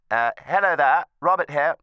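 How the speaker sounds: projecting far too much at the receiver; talking loud. Real, not acted. Retired judge introducing himself on the phone, too loud. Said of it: "Sorry, I'm talking loud".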